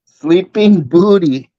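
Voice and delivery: slow, laughing pun; laughing while twisting the nickname. Real, not acted. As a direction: giggle through the joke. Joking about a nickname.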